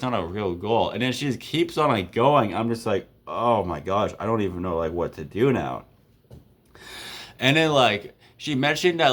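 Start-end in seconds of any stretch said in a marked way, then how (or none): 3.3-5.9 low, deflated retelling; mild dismay, pitched down; at a loss. Retold or imitated. Guy worn down by his date's tirade, at a loss. At a loss as she keeps going.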